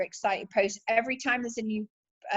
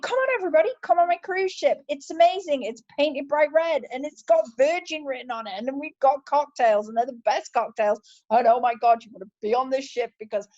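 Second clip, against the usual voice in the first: excited showman; 2 semitones higher, faster than usual. Retold or imitated. Richard Branson hyping his new cruise ship, excited showman. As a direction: hype it up like launching a cruise ship. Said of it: "He was like".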